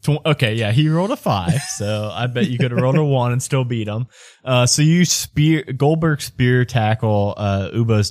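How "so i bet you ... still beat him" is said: usual speaking voice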